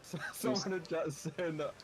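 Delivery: echoing voice, like a cave; boomy, hollow cave ambience. Real, not acted. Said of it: "you sound like you're in a cave".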